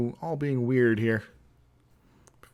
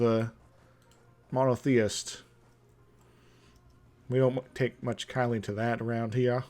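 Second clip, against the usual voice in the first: mock Southern accent. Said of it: "I have to say it in a sort of a accent like that".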